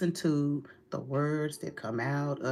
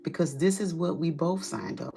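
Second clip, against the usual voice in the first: firm refusal. Pretend. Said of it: "the look from you is a more firm, like".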